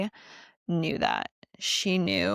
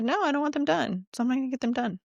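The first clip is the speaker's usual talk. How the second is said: higher-pitched, mock stubborn protest; stubborn refusal; 6 semitones higher, much faster than usual. Retelling refusing to get nails done, stubborn. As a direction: dig in and refuse, pitch raised. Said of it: "I'm very stubborn".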